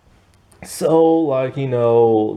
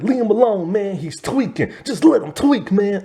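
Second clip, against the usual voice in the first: higher, lazy, hammed-up stoner; mock stoner voice; 8 semitones higher than usual. Zeke waving off worry about his tweaking friend, mock-lazy. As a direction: play the chill friend for laughs. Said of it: "He's like".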